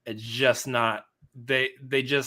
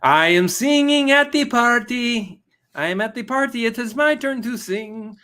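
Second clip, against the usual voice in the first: Jack Black impersonator; 12 semitones higher, 9 dB louder than usual. Retold or imitated. To the co-host, doing a Jack Black impersonator for a laugh. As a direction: ham it up like a rock singer at a party. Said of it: "Jack Black impersonator".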